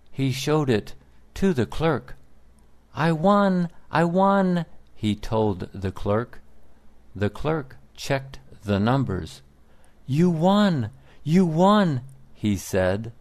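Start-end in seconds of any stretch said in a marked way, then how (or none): 3.0-4.7 high, loud cry of victory; excited. Acted. Shows winning ticket to clerk. 10.1-12.0 high, loud astonished shout; the clerk can't believe it, shout it; excited. Acted. Clerk confirms the win.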